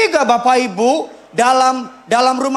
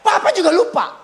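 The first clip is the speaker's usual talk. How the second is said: higher, laughing mock jab; teasing wife; 7 semitones higher than usual. Wife teasing husband about his old forgetfulness, laughing and higher. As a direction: needle him with a laugh.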